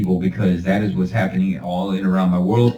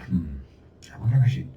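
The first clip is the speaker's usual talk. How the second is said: dazed victim; 5 semitones lower, 6 dB quieter than usual. Pretend. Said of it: "And you're like".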